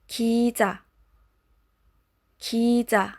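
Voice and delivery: 기자 with a light, not heavy J; light J sound. Shown as a demonstration. Teacher models 기자 for learners, light J sound. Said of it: "the J sound is not as heavy".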